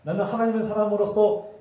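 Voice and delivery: high, building to a loud cry; proclaiming shout. Retold or imitated. Saul boasting before God, shouted proclamation. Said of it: "외쳤지만".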